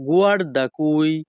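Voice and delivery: slow, careful teacher pronunciation; very slow, deliberate Italian; slow Italian model phrase. Shown as a demonstration. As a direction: lay out each syllable slowly for the learner. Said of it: "Italian ভাষা".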